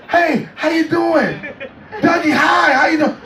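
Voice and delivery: high-pitched celebrity greeting; high Michael voice. Retold or imitated. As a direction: imitate Michael's high friendly hello.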